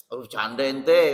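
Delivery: loud, slow scoff; mock dismissive refusal. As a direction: brush him off with a laugh. Ustaz refusing rude borrower.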